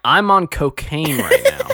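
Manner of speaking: high, stretched-out mock declaration; mock manic confession. Co-host pitching a comeback to the hallway request, mock manic.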